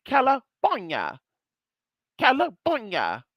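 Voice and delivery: "California" said with a B, slowly; California as Calabornia. Shown as a demonstration. Vlogger to viewers, musing on names: slow Calabornia. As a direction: say "California" like kah-luh-BOHR-nyuh. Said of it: "You say the F so fast".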